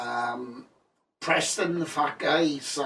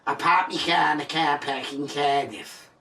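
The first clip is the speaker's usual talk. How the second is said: Welsh accent demo. Shown as a demonstration. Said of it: "say this to me".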